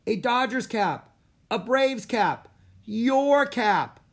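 high, loud begging yells; kids shouting. A narrator's reading. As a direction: shout demands from the stands. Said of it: "Jack ignored the kid shouting".

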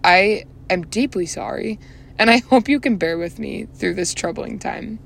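mock-solemn apology in a British accent. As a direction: slip playfully into a British accent. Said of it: "break out into a British accent".

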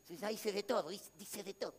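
imitating a discouraged believer, low and quiet; mock despondent. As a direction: sound like someone who has given up. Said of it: "No, diciendo".

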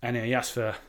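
convincing fake Scottish accent; put-on Scottish accent. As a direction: tell it in an assumed Scottish accent. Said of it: "I'm not even Scottish".

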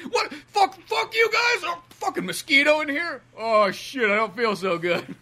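very high, slow, crying shout that fades into a sick moan; mock-tearful Aquaman shouting, then feeling ill; whiny Aquaman. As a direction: wail it like an overgrown brat, then wilt. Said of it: "him just being so defensive".

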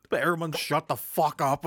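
angry. Retold or imitated. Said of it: "you're like".

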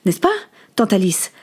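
dry, pointed question in short bursts; understated accusation; curt questioning. Acted. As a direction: ask it coldly, with brief pauses. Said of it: "lui demanda sèchement".

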